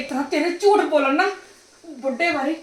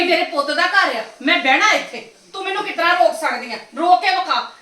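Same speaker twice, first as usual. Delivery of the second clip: raised, defiant challenge; defiant anger. Acted. Mother-in-law daring her daughter-in-law, defiant. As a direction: dare her to stop you.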